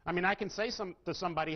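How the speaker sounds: ordinary talk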